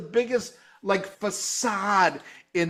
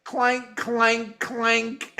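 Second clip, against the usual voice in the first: guitar imitation; 4 semitones higher, much slower than usual. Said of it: "the guitar's like".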